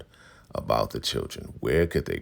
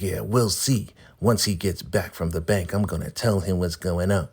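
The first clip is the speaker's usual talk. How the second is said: snippy matron getting the last word; smug elder; 6 semitones higher than usual. Retold or imitated. Marva threatening to tell the highest, high and snippy.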